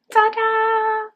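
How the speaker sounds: high, loud, drawn-out fanfare; showy reveal. Real, not acted. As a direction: present it with a sustained high flourish. Revealing finished socks to viewers.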